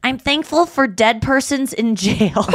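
put-on slow, deliberate child's announcement; imitated little boy. Imitating a boy giving thanks at dinner, slow and deliberate. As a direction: spell it out slowly, lightly childlike. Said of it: "he said".

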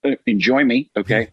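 light Robert Downey Jr voice; a hint of Tony Stark swagger; Robert Downey Jr impression. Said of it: "just the Robert Downey Junior".

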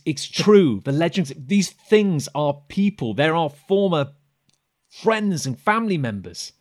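loud, carrying plea to the whole room. Acted. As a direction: project it so the entire room hears. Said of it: "raises her voice so the entire room can hear".

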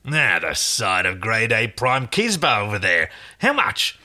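lightly voiced market trader, haggling; brash stallkeeper. Stallkeeper bargains with Aaron for Crichton, brash. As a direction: size up the goods and ask the price.

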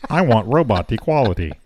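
flat robot monotone. Pretend. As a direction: talk like a robot. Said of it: "in a robot voice".

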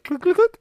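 high, loud imitated ratchet clicks; clicking noises. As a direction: crank out sharp mock clicks. Imitates a back being cranked.

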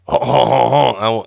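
hammed-up French chuckle; Pepe Le Pew. Co-host playing an amorous Frenchman, hammed-up chuckle. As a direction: throw out a mock Gallic "ho ho ho". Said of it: "I wanna be like Pepe Le Pew".

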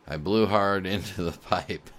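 laughing mid-sentence while reading; real laugh breaking into the words; reading the letter while cracking up. Real, not acted. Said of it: "I'm sorry I'm laughing so much".

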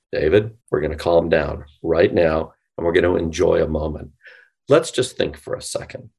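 soothing late-night radio voice. Shown as a demonstration. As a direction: talk yourself down like a late-night DJ. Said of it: "late night F M D J voice I can do".

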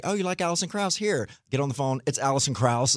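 a touch of acted excitement; lightly excited friend. Retelling friend's excited phone offer.

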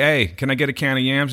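put-on a light Chicago accent on "yams"; hint of a Chicago accent. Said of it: "let me see if I could do it".

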